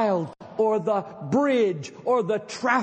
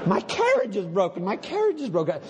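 quick mock whine of My carriage is broken; hammed-up self-pitying lament; mock whining; faster than usual. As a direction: whimper it like a self-pitying fool. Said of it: "wringing his hands and blubbering".

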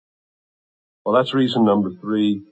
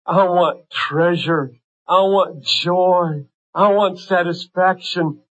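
building plea; 4 semitones higher, slower than usual. Pretend. Voicing a hedonist's prayer, building.

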